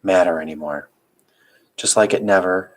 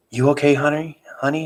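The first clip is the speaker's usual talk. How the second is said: groggy mom; 8 semitones higher than usual. Acted. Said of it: "she said groggily".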